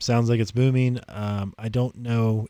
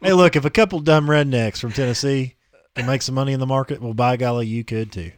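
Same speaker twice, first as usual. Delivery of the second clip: redneck ad pitch. Pretend. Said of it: "all the videos on the website are in the same voice".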